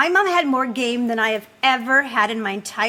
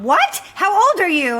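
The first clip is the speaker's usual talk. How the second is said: mock surprise; 5 semitones higher than usual. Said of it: "And I'd go".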